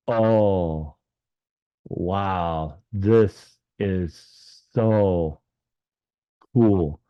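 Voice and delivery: very slow, drawn-out wonder; awestruck. Retold or imitated. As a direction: stretch each word in amazement. Retold awe at being in heaven.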